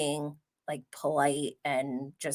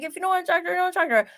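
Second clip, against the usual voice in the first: imitating a blunt retort; 11 semitones higher, much faster than usual. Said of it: "could have sounded a little bit bad the way he was like".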